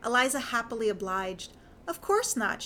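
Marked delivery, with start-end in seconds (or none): 1.9-2.6 much higher character voice; lifted, insincere little denial; Eliza's coy denial. A narrator's reading. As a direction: deny it coyly, pitched up. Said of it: "she said, but the gleam in her eyes belied her words".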